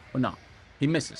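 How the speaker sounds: talking through clenched teeth; words pushed out through teeth. Real, not acted. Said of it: "I'm talking through, through my teeth".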